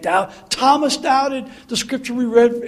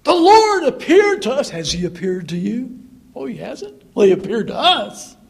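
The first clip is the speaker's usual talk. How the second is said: higher, louder smug bragging; boastful; 4 semitones higher, 3 dB louder than usual. Retold or imitated. The two disciples bragging to the eleven, smug. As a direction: show off to the others. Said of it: "They could have come in boastful".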